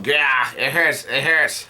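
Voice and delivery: drawn-out mock cry of pain; mildly acted yelp, stretched out; retold pained yell. King Bomb yells that it hurts, mock pained yell. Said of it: "lets out a yell of".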